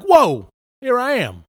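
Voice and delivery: drawn-out, high bewildered whoa; dazed surprise. Retold or imitated. Waking from a crash, bewildered and slow. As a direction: wake up stunned, slow and high. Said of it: "I was like".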